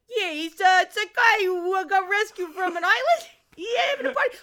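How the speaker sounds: mock Jersey accent that comes and goes. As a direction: do a muddled, half-hidden Jersey accent. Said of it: "a Jersey accent, kind of?".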